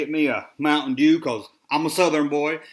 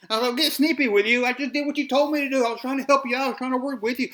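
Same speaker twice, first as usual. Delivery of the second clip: higher-pitched, exasperated self-defence; indignant protest; 8 semitones higher than usual. Real, not acted. To the critic who said don't get snippy, indignant and higher. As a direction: push back hard, voice climbing. Answering the guy's snippy reply.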